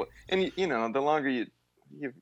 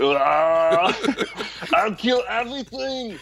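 mock Arnold; 10 semitones higher, much slower than usual. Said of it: "Arnold bit continues".

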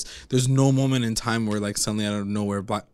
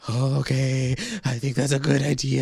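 coy agreement. Retold or imitated. Acts Zelda agreeing to the whipping.

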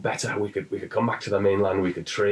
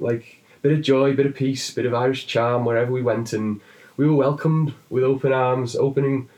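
put-on high-pitched Irish accent that drifts toward Welsh; a cheery, hammed-up Irish brogue with a lilt; 4 semitones higher than usual. Joking to the Englishman, in a put-on Irish accent. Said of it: "if I can do an Irish accent".

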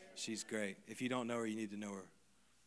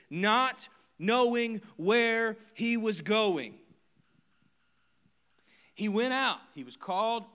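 preaching at full force; 9 semitones higher, 11 dB louder than usual. Acted. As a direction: drive each phrase home.

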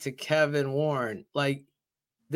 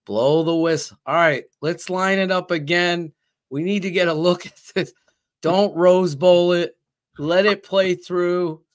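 coach calling out; 4 semitones higher, 5 dB louder than usual. Retold or imitated. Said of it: "you're like".

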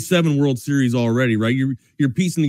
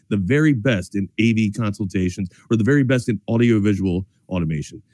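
low-pitched radio sponsor sign-off; live ad read; 6 semitones lower than usual. Acted. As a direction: reel off the contact details to close the plug.

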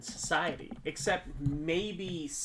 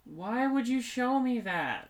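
disgusted laughter; 8 semitones higher, slower than usual. Real, not acted. Shown a disturbing movie image.

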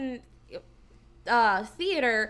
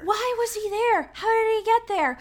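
higher and louder, asking in utter disbelief; why was he even there, pitched up high; baffled disbelief; 9 semitones higher, 5 dB louder than usual. Real, not acted. To his podcast co-hosts, about the random scene, in baffled disbelief.

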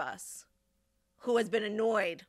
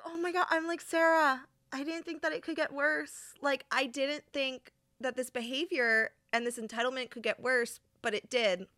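higher, outraged retelling; high disbelief; 6 semitones higher than usual. Retold or imitated. To Sarah, still shocked by Alana. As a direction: keep the shocked pitch up.

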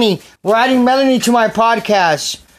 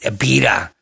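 slow hushed whisper; whispered, slowed-down repeat of her jab; 4 semitones lower than usual. Real, not acted. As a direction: whisper it as a sly aside. Repeating her remark aside.

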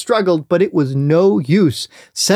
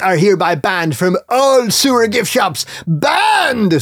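mock furious; 3 semitones higher than usual. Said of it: "screamed Micah".

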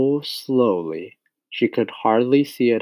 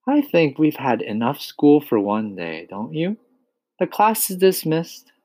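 lightly voiced kind teacher; 3 semitones higher than usual. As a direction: dismiss the class gently. Miss Honey dismisses class.

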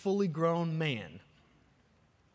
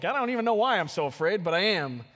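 retold anxious plea to God; 3 semitones higher, 4 dB louder, faster than usual. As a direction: vent it to God in a hurry. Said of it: "This is literally what I said last night".

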